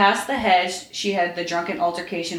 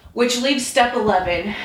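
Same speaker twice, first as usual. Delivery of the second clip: moody; 4 semitones higher, 5 dB louder than usual. A narrator's reading. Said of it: "Draco said moodily".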